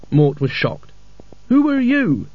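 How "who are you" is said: sharp, higher demand. A narrator's reading. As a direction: demand an answer. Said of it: "he demanded".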